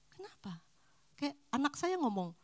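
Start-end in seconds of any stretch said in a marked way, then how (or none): 0.1-0.6 soft whisper, asking yourself; whispered question. Acted. Speaker quietly asking herself why she talks that way. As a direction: breathe the question inwardly.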